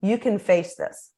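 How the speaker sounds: calm them without talking down; reassuring. Shown as a demonstration. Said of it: "the magical phrase of".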